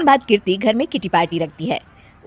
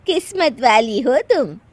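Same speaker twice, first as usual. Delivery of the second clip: slow, slightly higher gracious praise; admiring compliment; 4 semitones higher, slower than usual. Acted. Aunt praising friend's daughter-in-law, admiring. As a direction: tell her kindly and slowly.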